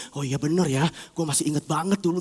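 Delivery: low, softly musing to oneself; soft, dawning agreement; hesitant agreement. Acted. Inner self agreeing with the tempter, low and musing.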